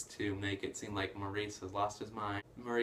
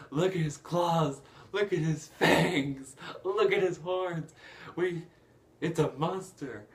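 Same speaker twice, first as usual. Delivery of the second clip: loud, higher, hammed-up villain alarm; mock rabble-rousing; 7 semitones higher, 7 dB louder than usual. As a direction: imitate a villain rousing a mob. Retold Gaston whipping up the mob.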